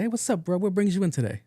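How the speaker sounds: high-pitched bro greeting; mimicked casual kid. Young intake kid greeting a patient, high casual mimicry.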